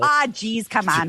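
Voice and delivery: a hint of Minnesota mom; Minnesota accent. Guest answers host in a light Minnesota accent. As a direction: jeez said the Minnesota way. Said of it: "she hates that accent".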